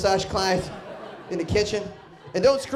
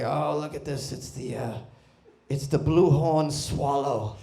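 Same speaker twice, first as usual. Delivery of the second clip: sweet narrator voice; 3 semitones lower, slower than usual. Retold or imitated. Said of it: "old English dude's got a very sweet voice".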